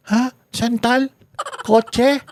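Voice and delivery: mock baby voice, very high and feeble; tiny high-pitched confused questions; Anicoche as baby. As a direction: imitate a weak captive gone suddenly infantile. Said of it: "bigla naging sanggol na yung boses niya".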